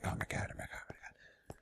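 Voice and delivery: tiny, fading panicked whisper; barely audible inner freak-out. Retold or imitated. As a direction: whisper it frantically to yourself.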